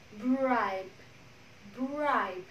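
"Bribe" slowly, b released straight into r; blended cluster. Shown as a demonstration. Teacher leading the class repeat, careful "Bribe". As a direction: model "Bribe" with a long vowel and clean final b. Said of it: "chỉ bật nguyên bản của âm đó".

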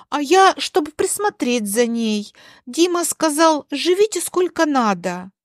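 a hint of a guileless older relative; innocent aunt explaining. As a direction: explain it as if perfectly obvious. Aunt innocently explains her stay.

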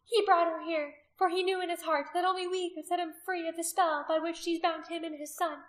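high, loud, persuasive oratory; rally them with fervour; ringing high-pitched public speech; haranguing the crowd. A narrator's reading.

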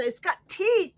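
lightly hammed-up mock warning; Monty Python quote. Describing the killer rabbit to viewers, light mock alarm. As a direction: lift the voice as if quoting a film.

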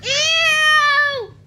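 loud high grossed-out ew; disgusted ew. Real, not acted. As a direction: squeal it in disgust. Toothpaste splashed on her.

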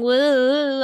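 drawn-out "woo" as the voice sways; wobbling voice "woo". Shown as a demonstration. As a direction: let a long "woo" drift with the moving head. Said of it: "sorry if my voice is going".

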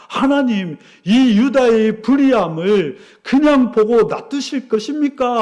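imitating an indignant prophet; mildly hammed-up angry challenge; angry protest. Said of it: "막 화가 난 것입니다".

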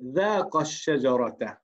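"ذاق الشجرة" read slowly, the final alif of "ذاق" dropped; "ذاق الشجرة" recited carefully, word by word; slow recitation. Shown as a demonstration. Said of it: "فمثال عليها عندما نقول".

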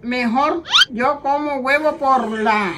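slow, halting ad reading. Shown as a demonstration. Mother reading egg script to camera, slow reading. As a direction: read it word by word, slowly. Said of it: "léelo lento y mirando la cámara".

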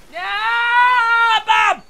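loud high whoops; excited shouting. Real, not acted. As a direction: yell it like a hyped ninja. Hyped ninja yelling in game.

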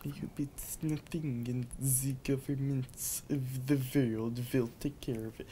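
put-on Romanian accent. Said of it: "That feels more like Romanian".

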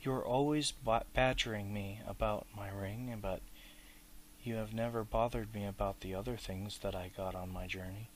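a mildly sharp, suspicious edge; sharp with suspicion. Acted. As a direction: snap back lightly, distrustful and annoyed. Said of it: "It was sharp with suspicion and annoyance".

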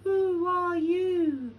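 high, drawn-out hollow call; big echoing voice. A narrator's reading. Cave answering Lion, big echoing voice. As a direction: echo back from the cave. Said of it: "answered a big voice".

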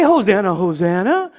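mock tame congregation, dipping low; subdued churchy hosanna. Shown as a demonstration. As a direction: say it tamely, as in a sedate church service. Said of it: "I ended up in the Catholic Church somehow".

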